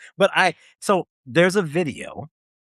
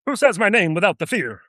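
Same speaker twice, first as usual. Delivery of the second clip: drill sergeant impression; 4 semitones higher than usual. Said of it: "He spoke the King's Spanish".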